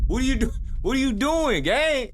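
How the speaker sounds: high-pitched, disbelieving challenge; incredulous questioning. Acted. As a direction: question their sanity, pitch way up. Questioning the friend's reckless behaviour.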